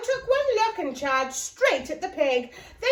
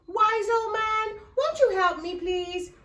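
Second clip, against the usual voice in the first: higher, coaxing plea for help; pleading old lady; 5 semitones higher than usual. Acted. Old lady begging the wise man for help, pleading. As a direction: beg him nicely, a bit higher.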